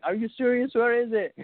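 mildly incredulous quote; retold disbelief. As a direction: replay your surprised questions, pitch lifted. Retold reaction to found phone.

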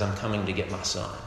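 low, quiet, understated resolve; calmly stern, voice kept down; solemn. Retold or imitated. Dad at the dealer's door for his son, calmly solemn. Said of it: "get very solemn".

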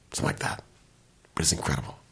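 hushed whisper in awe. Real, not acted. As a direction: drop to a reverent whisper. Reverent hush about the album.

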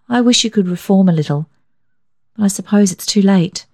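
a hint of a spirited young woman; a daughter teasing her father; lightly voiced daughter Isabel.

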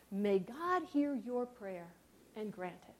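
put-on slow, soft old priest's blessing; a hushed, slow priestly blessing. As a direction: bless her quietly and slowly.

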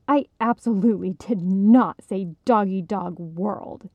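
snapping. Acted. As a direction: snap back, stung. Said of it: "Esther snapped".

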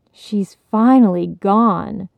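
slow dramatic sighing line. Acted. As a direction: heave it out like a hammed-up child. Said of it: "cried with a dramatic sigh".

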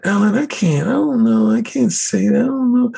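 a lightly voiced flustered woman. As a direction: play her caught off guard and shy. Linda voiced hesitating.

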